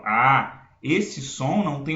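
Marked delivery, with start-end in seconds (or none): 0.0-0.7 sustained open "ah", mouth wide; open ah vowel. Shown as a demonstration. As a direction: hold a long open "ah". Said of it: "eu falo". ("ah" aberto e prolongado)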